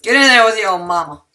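yelling. Real, not acted. Herding chickens loudly.

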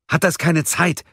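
höher und lauter, genervt; gereizt. A narrator's reading. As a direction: unwillig abwimmeln. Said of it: "fragte Mia gereizt". (Mia fragt Gabriel gereizt am Telefon)

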